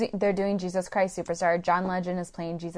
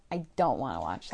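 imitating co-host; 9 semitones lower, 6 dB quieter than usual. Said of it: "and you said".

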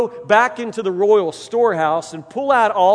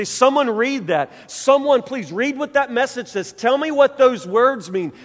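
put-on the drunk king begging someone to read it; panicked king; 6 semitones higher, 5 dB louder than usual. Belshazzar begging his guests to read the wall, in mock panic. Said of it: "begins to panic and say".

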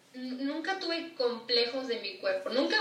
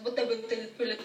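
rattled off; 2 semitones lower, faster than usual. Retold or imitated. Mocking the long nickname.

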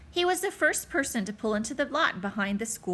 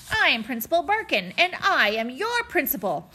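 commanding principal; 4 semitones higher, 4 dB louder than usual. Acted. Barkin drafting his power speech.

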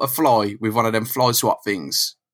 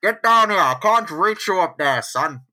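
mock Mysterio shout; 6 semitones higher than usual. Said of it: "It's like".

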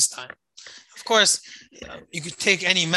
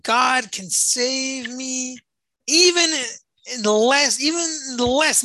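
crying out; 5 semitones higher than usual. Retold or imitated. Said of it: "I cry out and said".

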